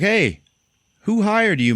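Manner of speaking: high, loud retold question; calling across. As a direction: raise the voice to reach someone far away. Calls across room to wounded sniper.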